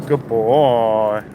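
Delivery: praising a dog. Real, not acted. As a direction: praise the dog soothingly, stretching the words.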